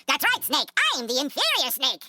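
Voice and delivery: high, hammed-up villain taunt; Liquid Snake. Podcaster imitating Liquid taunting Snake, theatrical high voice. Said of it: "Liquid constantly is telling you".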